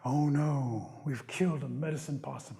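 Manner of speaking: solemn dismay. Acted. Chief thinking they killed Possum, dismayed.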